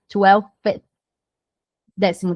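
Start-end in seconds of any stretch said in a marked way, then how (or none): 0.1-0.8 "Twelfth." with an f pulled into th. Shown as a demonstration. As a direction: blow the th right after the f of "Twelfth.". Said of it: "Você vai fazer o F e vai puxar o T H".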